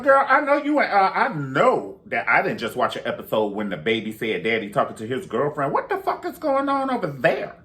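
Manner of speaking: high, loud, fed-up scolding; pissed-off girlfriend. Retold or imitated. Friend scolding her over the reunion, loud and high. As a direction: read her the riot act like a singer. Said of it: "Tina Marie used to talk to Rick James when she got pissed off".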